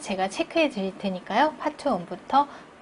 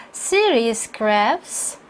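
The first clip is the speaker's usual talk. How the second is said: "City" hit firmly, slowly; stress on City; much slower than usual. Shown as a demonstration. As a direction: punch "City" in a measured reading. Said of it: "강세 주시고요". ("City"에 강세를 주어 천천히)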